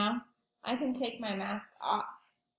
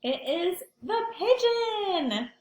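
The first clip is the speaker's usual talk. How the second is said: higher, louder and slow, a grand announcement; big reveal; 8 semitones higher, 4 dB louder, slower than usual. Acted. Librarian reveals the book's hero to the class, thrilled. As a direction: unveil it with a storytime flourish.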